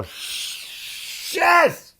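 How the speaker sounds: high, unvoiced hiss of defeat; whispered swear as the wrong teller calls; whispered curse. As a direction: breathe the curse out in frustration. Losing the teller game.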